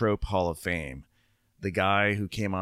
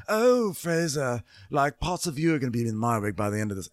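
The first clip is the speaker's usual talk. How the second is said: mock sassy Haley; 5 semitones higher, 3 dB louder than usual. Imitating Haley's reply.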